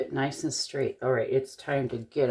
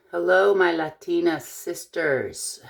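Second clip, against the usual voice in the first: lightly put-on Latina accent, a little higher; 4 semitones higher, 4 dB louder than usual. Shown as a demonstration. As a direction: greet them in a playful Latina accent. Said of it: "kind of a Latina accent".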